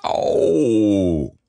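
long drawn-out "oh" of pain; a mild, stretched yelp; pained cry. A narrator's reading. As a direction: Pooh crying out. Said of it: "cried Pooh".

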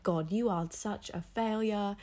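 slow, put-on voice of her inner critic; self-critical inner voice. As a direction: say it slowly to your own reflection. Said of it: "I'd look in the mirror and I'd be like".

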